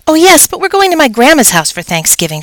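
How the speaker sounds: a little classmate apologising brightly; young girl voice. A narrator's reading. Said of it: "she explained".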